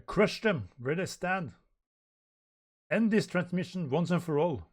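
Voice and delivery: high, loud battle order; forceful command. Acted. Commander orders the enemy crushed, forceful. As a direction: give the order at full volume.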